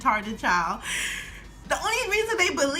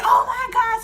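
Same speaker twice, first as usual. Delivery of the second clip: louder and higher, shocked; alarmed; 10 semitones higher, 6 dB louder than usual. Retold or imitated. Family seeing the bruise, louder and shocked. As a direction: gasp it out. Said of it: "they was like".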